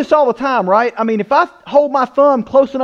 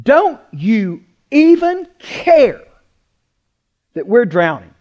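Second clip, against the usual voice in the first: accusing plea; slower than usual. Retold or imitated. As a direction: voice the panicked disciples' reproach. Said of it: "and said".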